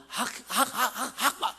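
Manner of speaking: stuck on "학", repeating it and breaking into laughter; stuttering imitation. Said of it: "이 목사님이 말더듬이셔요". (말더듬는 목사님 흉내, 웃음 섞인 "학, 학")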